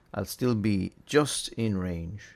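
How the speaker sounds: talking through a mouthful; words muffled by food in mouth; mouth full. Real, not acted. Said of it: "Speaking with my mouth full again".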